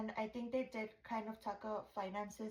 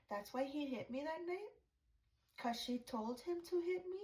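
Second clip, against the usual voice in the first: shocked realization; 5 semitones higher than usual. Retold or imitated. Imagined realization.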